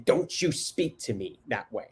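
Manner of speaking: stern parent. Shown as a demonstration. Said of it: "I know that it's better than".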